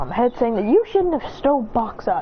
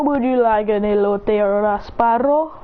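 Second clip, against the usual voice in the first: vendor voice; 3 semitones lower than usual. Acted. The speaker greets Beerus as vendor.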